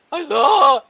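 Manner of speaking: a sweet I love you that sounds like a knife; nice with an edge. Retold or imitated. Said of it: "You hear the knife?".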